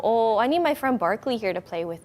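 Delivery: lightly voiced eager puppy; a hint of playful puppy chatter; puppy talk. Presenter runs through a snow video as a puppy, light puppy talk. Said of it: "talk over this video in that puppy talk".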